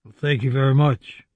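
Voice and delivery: lightly done catchphrase of a famous singer; a hint of the singer, understated; impression of a famous singer. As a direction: toss off a slight impression of a famous singer. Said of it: "That's my impression of a famous singer".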